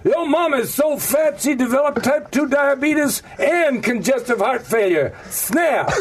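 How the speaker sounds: hammed-up African American accent punching the snap; a guest gamely trying an African American accent. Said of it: "can you do an African American accent? I'll try".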